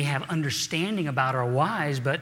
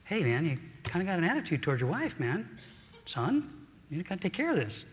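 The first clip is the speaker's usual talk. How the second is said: God's gentle reminder; 3 semitones higher, 5 dB quieter than usual. Retold or imitated. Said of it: "he'll quickly remind me".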